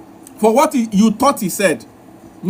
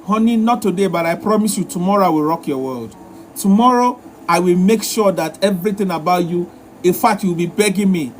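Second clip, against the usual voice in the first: tender promise; 5 semitones lower than usual. Shown as a demonstration. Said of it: "It's better to say".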